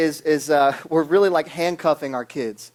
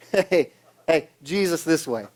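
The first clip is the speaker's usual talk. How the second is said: signpost call. Shown as a demonstration. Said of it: "big flashing signs".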